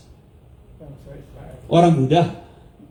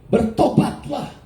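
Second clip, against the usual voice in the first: high, slow call to repent; herald's cry, raised and stretched out; loud proclamation; 5 semitones higher, much slower than usual. Acted. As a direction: proclaim it syllable by syllable. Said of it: "dia dengan suara keras".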